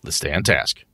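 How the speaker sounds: coaxing game master. Acted. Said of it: "shake 'em a little bit and say".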